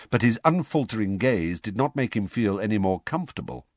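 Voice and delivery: ordinary delivery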